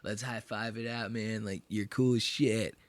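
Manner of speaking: soft, low-key buddy voice; hushed, ingratiating mock plea; imitating Sam. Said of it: "He's like".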